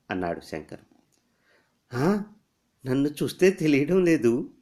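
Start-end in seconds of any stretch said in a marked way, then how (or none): 1.9-4.5 light laugh in a higher voice. Acted. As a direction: answer with a small laugh, pitch up. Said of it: "అని నవ్వింది". (నవ్వుతూ)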